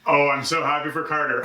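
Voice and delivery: sarcastic fake cheer. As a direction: say it meaning the opposite. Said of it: "That's sarcasm".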